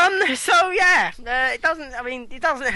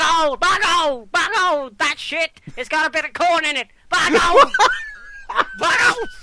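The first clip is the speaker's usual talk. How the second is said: imitating J R; 5 semitones higher than usual. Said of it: "he'd be like".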